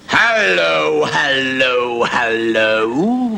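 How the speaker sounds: slow, drawn-out hellos; a wife catching him out; mock stern wife. Wife finding husband in bed with women, mock stern.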